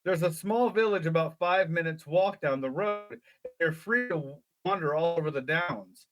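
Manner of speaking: lively read-aloud storytelling; story narration. A narrator's reading. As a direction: read it like a children's adventure book. Reads gamebook story aloud.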